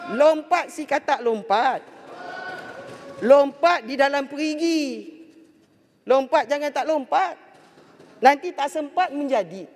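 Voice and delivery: declaimed rhyming verse, unhurried; pantun recital. Shown as a demonstration. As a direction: recite it line by line like a pantun, with pauses between lines. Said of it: "saya nak bagi sedikit pantun".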